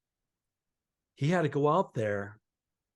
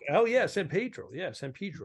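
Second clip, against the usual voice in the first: automatic agreement; 4 semitones higher than usual. Retold or imitated. Comic saying yes without checking the itinerary, automatic agreement. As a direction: agree without thinking, trailing down. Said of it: "I just went automatic".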